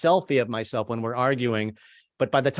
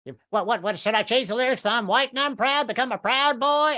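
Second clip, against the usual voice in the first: indignant grandpa; 11 semitones higher than usual. Retold or imitated. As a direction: sputter it high like a baffled grandpa. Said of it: "and he's like".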